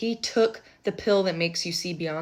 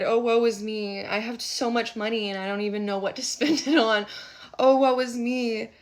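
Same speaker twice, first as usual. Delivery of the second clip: 1 mock complaint; 4 semitones higher, 4 dB louder than usual. Mock whiny querent voice.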